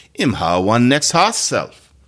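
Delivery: slow Jamaican patois, leaning on hoss; a careful Jamaican patois line. Shown as a demonstration. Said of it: "That's another horse in Jamaican patois".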